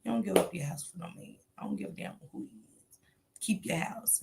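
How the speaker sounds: lightly voiced mother, fast and soft; a hint of mom laying down the law; mom's advice. Quoting her mother's advice about the house, lightly voiced. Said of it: "My mom always said".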